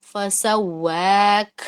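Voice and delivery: فسواک held very slowly, ending in a breathy ک; hams breath demo. Shown as a demonstration. Teacher demonstrates hams stop on فسواک, breathy. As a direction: let air escape on the ک of فسواک. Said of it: "اس طرح سے میں نے روکا".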